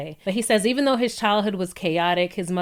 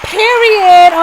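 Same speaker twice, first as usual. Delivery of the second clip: emphatic period; 9 semitones higher, 11 dB louder than usual. Real, not acted. Emphatic exclamation.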